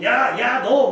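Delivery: loud, high mock shouts; imitated kids' yelling. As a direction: imitate noisy kids yelling at night. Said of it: "소리 지르면서 노니까". (떠드는 아이들의 고함 흉내)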